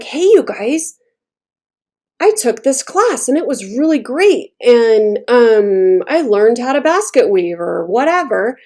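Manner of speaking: excited. Acted. Telling friends about a great class, excited. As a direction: share happy news with animated pitch swings. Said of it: "And you're excited about it".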